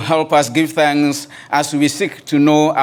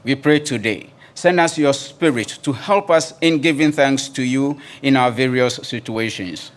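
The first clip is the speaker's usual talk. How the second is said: opening prayer. Acted. Pastor praying aloud for the congregation, earnest and reverent. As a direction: call on God with reverent weight.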